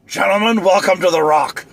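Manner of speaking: a rough Connery impression; Sean Connery. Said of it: "I can sound like Sean Connery".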